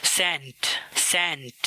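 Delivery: सेंट opened with a crisp ts; सेंट with ts, not plain s; ts sound. Shown as a demonstration. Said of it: "sound टी एस के साथ".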